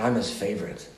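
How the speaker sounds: low, softly savored words; velvet feeling. Retold or imitated. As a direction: quietly relish it. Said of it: "It had this velvet feeling to it".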